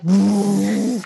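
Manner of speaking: rushing engine noise; vrooming truck sound effect; imitated truck roar. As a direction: imitate a big pickup roaring past. Imitates pickup truck barging in.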